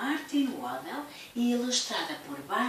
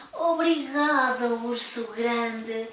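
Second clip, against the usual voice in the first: slow, teary thank you; tearful thanks; 5 dB louder, slower than usual. Acted. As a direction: thank him through tears. Little bear grateful. (agradecimento choroso)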